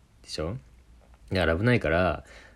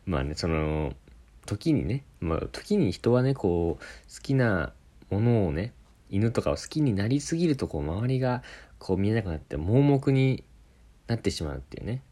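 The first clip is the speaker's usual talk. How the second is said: mock folk tale moral. Narrator ending the dog story as a mock fable with a moral. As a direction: close it like a wise old fable, tongue in cheek. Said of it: "昔話みたいな。".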